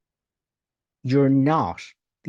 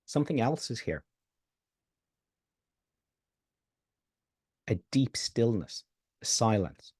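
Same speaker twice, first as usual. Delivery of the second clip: contemplative hush; 3 semitones lower than usual. Acted. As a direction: guide them into stillness. Contemplative pointing to stillness.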